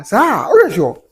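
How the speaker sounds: 高声慢问，带着惊讶; surprised question. Acted. Mock surprised question to viewer.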